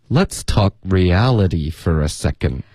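"reality" with a d-like t, "for a" linked; connected speech. Shown as a demonstration. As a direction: model the linked line, "second" losing its final d. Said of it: "特的音我们会浊化成一个的".

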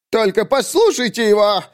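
high, scandalised cry; indignant exclamation. Acted. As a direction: appeal to everyone in outrage. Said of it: "воскликнул Бреш Фластырь". (возмущённо воскликнуть)

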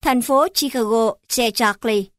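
Chicago and Charlie said the Southern way, "Charlie" as "chác-li"; thành phố Chicago, Che Charlie in Southern Vietnamese; Southern Vietnamese accent. Shown as a demonstration.

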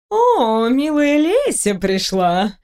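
languid, slow seductive purr; breathy hollywood starlet. Acted. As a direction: drawl it lazily like a vamp. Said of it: "томно произнесла Кэт".

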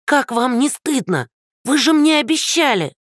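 put-on high, indignant old woman's scolding. Old neighbour scolding Andrey, high and indignant.

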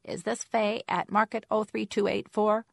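high, loud, drawn-out squeaky caller. A narrator's reading. Unknown caller checking she has reached Faye, squeaky voice. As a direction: squeak it slowly, pitched well up. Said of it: "a Jane with a squeaky voice said".

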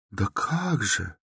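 soft, slow plaintive drawl; a mournful, drawn-out sigh of a reply. A narrator's reading. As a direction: draw it out pitifully. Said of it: "протянула Соня жалобно".

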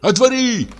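very high, shaking cry; trembling shout. A narrator's reading. Doctor shouting at the door, trembling. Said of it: "крикнул Андрей Ефимович, дрожа всем телом".

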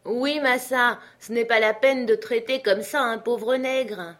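high, loud, aggrieved character voice; protesting servant. Acted. Jupiter objects to his master's scolding, aggrieved. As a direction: protest the harsh treatment.

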